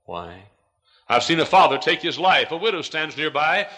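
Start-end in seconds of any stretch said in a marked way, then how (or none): 0.1-0.5 mute whisper. A narrator's reading. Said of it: "mutely whisper".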